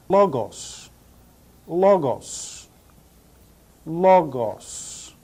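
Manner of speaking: "logos" said LAW-goss, stress up front; pronunciation demo. Shown as a demonstration. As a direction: model "logos" as LAW-goss, leaving room to repeat. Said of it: "It is pronounced".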